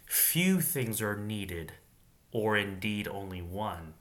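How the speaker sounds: very slow, deliberate phrasing; slow reread. Shown as a demonstration. Reader dwelling on the verse, very slow. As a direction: linger on each word. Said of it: "That's something to meditate on".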